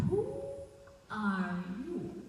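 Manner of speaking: suddenly startled, facing a stranger in her house; startled question. Acted. Wife confronts stranger at door.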